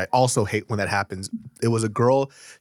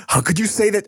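imitating sad monologue; 8 semitones higher than usual. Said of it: "picture you being such an artist. Going, cry".

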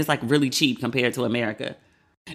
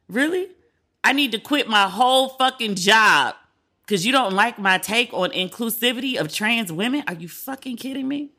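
exasperated disbelief; 6 semitones higher than usual. Real, not acted. Podcaster fires back at a commenter telling her to quit, in exasperated disbelief. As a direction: let the disbelief boil over at the critic. Hate mail says quit your job.

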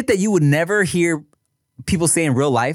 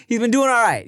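laughing; 8 semitones higher than usual. Real, not acted. Laughing through the line.

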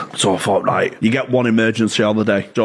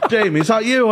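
laughing high voice; 12 semitones higher than usual. Retold or imitated. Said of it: "manager answers the phone".

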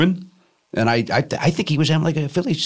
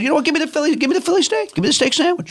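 imitating Obama; 11 semitones higher, faster than usual. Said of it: "And he said".

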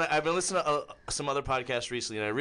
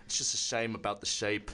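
lightly done British baker voice, low; a mild take on a stern TV baker judging bread; low, understated British judge accent; Paul Hollywood impression; 7 semitones lower, slower than usual. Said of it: "I've been doing the Paul Hollywood".

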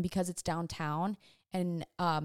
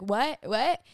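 louder, rising question; raised-voice "what?", pitched up on the repeat; mock puzzled call; 4 semitones higher, 5 dB louder than usual. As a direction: imitate someone who can't hear you. Staff unable to hear her whisper.

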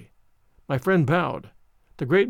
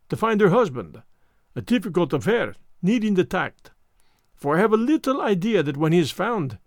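fussy Belgian detective voice; lightly French-accented precise gentleman; Hercule Poirot. Acted. Poirot speaks.

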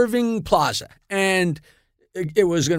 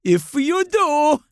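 laughing retort; 6 semitones higher than usual. Retold or imitated. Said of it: "she says".

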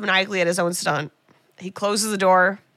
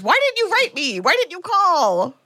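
high, hurt plea from the heroine; pleading heroine; 9 semitones higher than usual. Acted. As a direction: voice her ache, pitched up high. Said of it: "she finally says".

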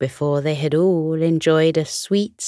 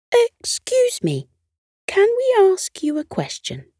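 very high-pitched little elf voice; polite elf. A narrator's reading. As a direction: squeak out a polite request. Elf politely approaches a snowman.

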